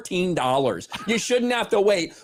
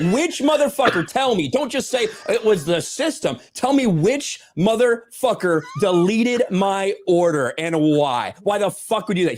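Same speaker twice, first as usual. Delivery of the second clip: retold angry demand; 3 semitones higher than usual. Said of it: "I was pissed off".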